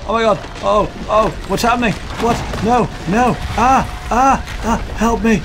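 hammed-up dying soldier, high and loud; wounded soldier gasping. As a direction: overplay a panicked death scene. Mock dying soldier drama.

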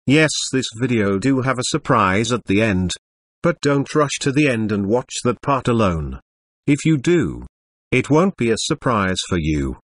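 robotic text-to-speech computer voice. Acted. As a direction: read it like an old speech synthesizer. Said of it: "sorry for the computer voice".

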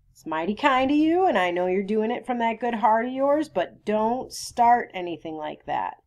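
lightly acted earnest refusal, starting high; earnest Atticus. Atticus turning down the sheriff's favor, mildly earnest.

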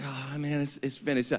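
soft defeated whimper, like a victim; weak whimper. Retold or imitated. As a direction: mumble it out like a beaten man. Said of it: "It wasn't like".

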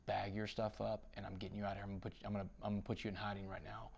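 soft, confidential instructions; hushed guard. Retold or imitated. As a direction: imitate a guard quietly moving someone out. Guard secretly hurries him out.

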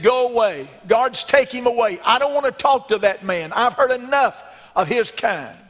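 condemned prisoner shouting for the guards to remove the governor; angry shouting. Acted. Condemned man drives governor away.

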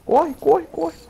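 high urgent yell to run; urgent shout. Real, not acted. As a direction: urge them to run, shouting. Urging partner to run.

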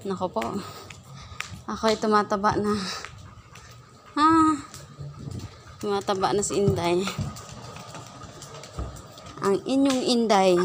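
panting between words, winded; out of breath. Real, not acted. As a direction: talk while winded from walking. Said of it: "Hinihingal na ako".

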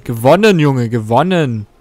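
loud, then drawn out slowly; gloating. Real, not acted. Gamer gloating at the beaten computer, loud and slow. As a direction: crow the win, stretching it slowly. Gloating over winning checkers.

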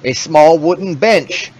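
slow scene-setting read; descriptive narration. Acted. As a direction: set the scene for players. Reads room description.

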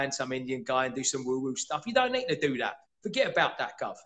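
light mock Cockney bloke; a hint of a Cockney mate talking you out of it; Cockney accent. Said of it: "Let me put on my Cockney accent".

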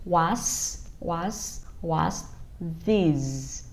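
"What's" slow, teeth closed, air pushed out; "What's" repeated slowly, final s hissed between closed teeth; teeth together on s. Shown as a demonstration. Teacher drilling "What's" for parents, teeth together. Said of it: "chúng ta đặt hai cái răng lại với nhau và chúng ta đẩy hơi ra".

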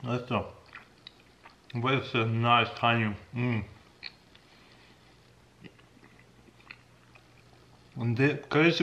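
talking with food in mouth; mumbled between bites; chewing while talking. Real, not acted. Seen 1: Pursed, bulging lips between words; knife with honeycomb; chewing throughout.

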